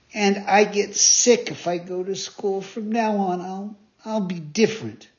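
repentant puppet. Acted. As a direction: promise to do better.

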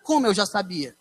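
como eu já sabia asked back in disbelief; baffled repeat of her words; puzzled echo. Real, not acted. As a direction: son echoes mother, confused. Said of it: "agora é que eu não tô entendendo nada".

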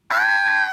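loud imitation scream; mock a wife's sudden fright; wife's startled scream. Wife jumps up at the iguana, startled mock scream. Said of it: "my wife jumped up".

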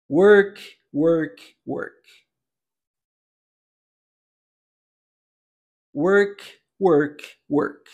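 "Work" said cleanly again and again; repeat-after-me drill. Shown as a demonstration. Teacher leading students through repetitions of work. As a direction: clip each "Work" for the learner to echo. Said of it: "nós vamos repetir agora".

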